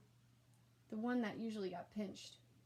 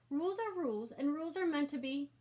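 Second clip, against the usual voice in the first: put-on much higher, louder fussy kid voice; insistent little brother; 6 semitones higher, 4 dB louder than usual. A narrator's reading. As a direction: insist like a know-it-all child.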